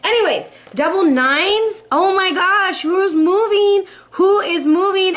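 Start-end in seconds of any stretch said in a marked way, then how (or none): 1.9-5.2 excited surprise. Real, not acted. Tarot reader to Aquarius viewers, surprised and excited. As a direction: gasp it out, thrilled.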